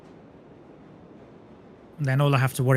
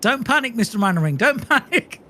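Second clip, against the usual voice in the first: Dad's Army quote; 8 semitones higher, 3 dB louder than usual. Retold or imitated. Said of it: "such a British reference".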